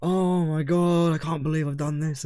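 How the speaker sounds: half-hearted Scottish quote; understated Scottish accent in the retelling; retold Scottish driver. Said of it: "say that again".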